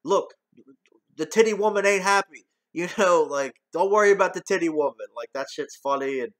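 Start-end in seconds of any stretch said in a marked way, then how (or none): 0.0-2.5 lightly voiced brash hustler, higher and louder; a hint of Eddie's fast-talking con; quoting Axel Foley. Reviewer quoting Axel's credit card hustle, lightly acted. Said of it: "when he's talking to Robert Passatorelli". 3.7-5.1 quick, louder, higher mock line; quoting Axel. Reviewer reciting a favorite line, fast and louder.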